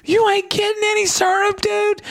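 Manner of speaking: hammed-up gangster voice; gangster dad. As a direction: play the tough guy to your son. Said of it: "I go, like, gangster on him".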